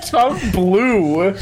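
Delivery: ordinary talk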